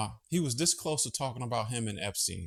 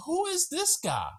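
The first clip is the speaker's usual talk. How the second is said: retold amazement. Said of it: "And I was like".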